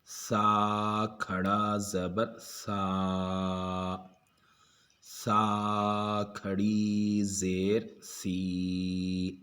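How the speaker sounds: each syllable drawn out, very slow; slow spelling drill. Shown as a demonstration. Teacher spelling Qaida letters for students, very slow drill.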